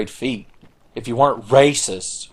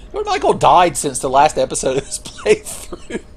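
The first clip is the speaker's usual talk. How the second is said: tag; 6 semitones higher, 4 dB louder than usual. Real, not acted. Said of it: "That's so sad".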